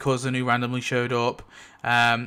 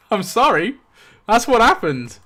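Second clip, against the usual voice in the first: laughing through it, higher; laughing apology; 8 semitones higher, 5 dB louder than usual. Real, not acted. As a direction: giggle out the apology. Laughs at grim ending.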